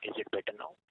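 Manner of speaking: distorted bad phone line; speaking through a poor handset connection; over the phone. Real, not acted. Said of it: "it's still the same".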